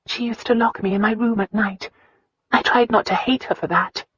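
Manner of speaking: put-on a hurt girl finally opening up; Christina's voice.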